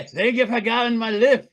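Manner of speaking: mangled mock Scottish; terrible Scottish accent. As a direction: badly fake a Scottish accent. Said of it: "worst goddamn accent I've ever done".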